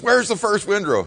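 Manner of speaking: imitating dad demanding; mock angry question. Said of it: "he says".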